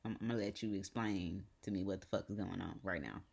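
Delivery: understated, restrained sternness after a sigh; imitated grandmother. Grandmother on FaceTime demanding explanation, mildly stern imitation. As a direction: lightly imitate a grandmother holding back her reaction. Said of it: "the look how grandmothers look".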